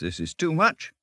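high-pitched, overwhelmed delight; in ecstasies. A narrator's reading. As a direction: exclaim it, overcome with rapture. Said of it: "cried the mole in ecstasies".

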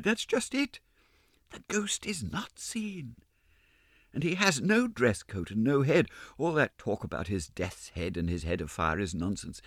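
a hint of little Meg; lightly voiced young girl. Meg insists to the ballet girls, lightly girlish.

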